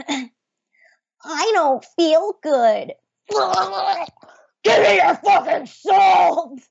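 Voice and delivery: high, slow, teary cartoon piglet. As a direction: whimper it like a tiny piggy, then snap. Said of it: "her Otev, uh, Piglet impression".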